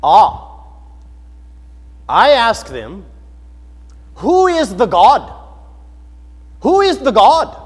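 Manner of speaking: loud, slow imitated Indian accent; Balaswamy. Translator telling what he asks Hindus, imitated Indian accent. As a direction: imitate an Indian accent, spacing the words out emphatically. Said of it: "with an accent like this".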